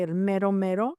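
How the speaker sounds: el mero mero with Spanish tapped r; Mexican Spanish phrase. Shown as a demonstration. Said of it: "as the Mexicans say".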